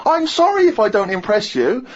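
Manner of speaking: ordinary talk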